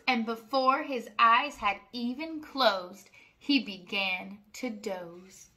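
sing-song rhyming read-aloud; reading to children. A narrator's reading. Reading a rhyming farm book to children, sing-song. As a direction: lilt each rhyme for little listeners. Story narration.

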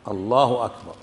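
"الله أكبر" with a short last vowel, "akbar"; plain, correct "Allahu akbar" with short "أكبر"; correct takbir. Shown as a demonstration. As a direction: end "أكبر" short, with no stretching. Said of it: "هي ليست أكبار".

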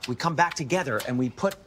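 talking while chewing gum. Real, not acted. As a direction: chew gum as you talk. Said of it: "that gum chewing is insane".

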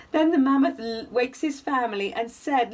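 gentle sing-song bedtime reading; cosy read-aloud storytelling; story narration. A narrator's reading. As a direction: read it like a rhyming picture book for little ones. Reading picture book aloud.

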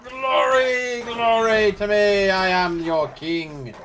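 roaring tyrant king. Pretend. Self-proclaimed king after kill.

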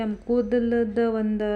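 usual speaking voice

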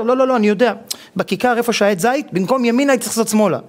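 husband refusing to ask directions, rattled off high and fast; stubborn husband. Retold or imitated. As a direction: brush her off, sure he knows the way.

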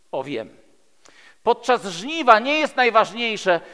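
normal talking voice

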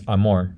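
amor ending in an English r; Brazilian English-like R. Shown as a demonstration. Teacher imitates some São Paulo speakers, Brazilian R. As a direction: end amor on an English-style r. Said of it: "some Brazilians would say".

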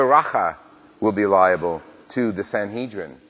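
measured, formal scripture proclamation; solemn Gospel reading. Acted. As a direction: read it like liturgy from the ambo.

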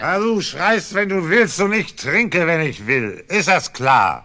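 loud, high furious yelling; angry shout. Acted. Drunk husband yelling back at his wife, furious shout.

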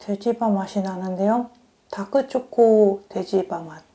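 chewing between words; talking around food; mouth partly full. Real, not acted. Seen 0: Bitten macaron in hand, cheeks slightly full, jaw moving while speaking.

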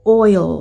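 "oil" as OY-ul; "oil" closed on a sounded L; English oil. Shown as a demonstration. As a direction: say "oil" with a dark final L. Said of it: "บ่แม่น oil จังสิเดะ".

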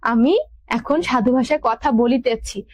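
slow, drawn-out "বলিতেছি"; measured delivery, lingering on "বলিতেছি"; formal drawl. Shown as a demonstration. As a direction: stretch "বলিতেছি" out in literary Bengali. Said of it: "একটা টান থাকবে".

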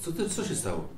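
acted concerned surprise; baffled friend. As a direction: ask in hushed bewilderment. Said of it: "Kazik mówi".

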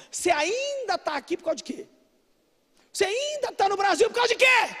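high, insistent challenge, building to a shout; mock incredulous questioning. People asking the preacher why he stays in Brazil, mock incredulous. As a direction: play the baffled questioner, pitched well up.

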